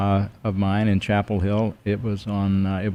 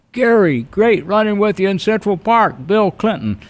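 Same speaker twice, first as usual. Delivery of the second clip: Bill Clinton impression; 11 semitones higher, 3 dB louder than usual. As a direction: do your best Bill Clinton. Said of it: "I love your impersonation. That's a great Bill Clinton".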